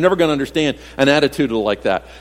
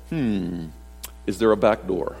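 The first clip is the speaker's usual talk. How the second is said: low and much softer, a nervous little joke; sheepish aside; 8 semitones lower, 8 dB quieter than usual. Retold or imitated. Pastor joking to the church about escaping arrest, sheepish and much softer. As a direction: mutter it like you're eyeing the exit.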